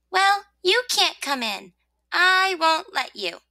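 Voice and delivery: high-pitched, firm refusal; refusing rosebud. Acted. Rosebud turning the rain away, refusing.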